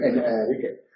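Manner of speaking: en, pause, Enrique; pause before Enrique. Shown as a demonstration. Teacher shows the pause in "en Enrique". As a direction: split "en Enrique" with a clear break. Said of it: "hacer una pausa para decir".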